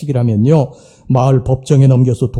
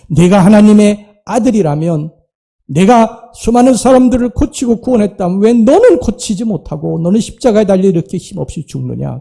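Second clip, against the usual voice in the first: raised, higher mocking jeer; jeering mockers; 5 semitones higher than usual. Preacher voicing the mocking crowd at the cross, jeering. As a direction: taunt him like the crowd at the cross.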